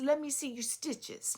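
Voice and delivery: lightly voiced Russian accent, sweetly put. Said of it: "extremely sweet and had a very thick accent".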